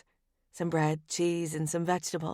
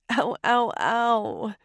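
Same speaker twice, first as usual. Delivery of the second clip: higher, whiny ow; pained ow; 4 semitones higher, much slower than usual. A narrator's reading. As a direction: whimper at the cut. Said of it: "I cry".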